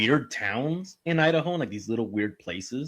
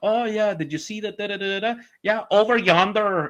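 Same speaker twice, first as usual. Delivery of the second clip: put-on slight Chinese accent, higher pitch; 7 semitones higher than usual. Retelling how locals in an Idaho town tell a story: imitating slight old Chinese accent. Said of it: "a small hint of an old Chinese accent".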